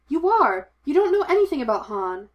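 high, loud indignant cry; loud protest. A narrator's reading. Leia protesting to her master about Han, loud and high.

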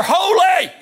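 high, loud, drawn-out shout; full-voiced angelic call, second syllable stretched; loud cry. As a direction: cry it out in overwhelmed awe. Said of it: "so loud".

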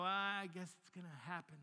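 acted reluctant sigh of resignation; half-hearted resignation. Preacher voicing us facing the giant, resigned. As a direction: play it resigned, with little energy. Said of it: "we just kinda go".

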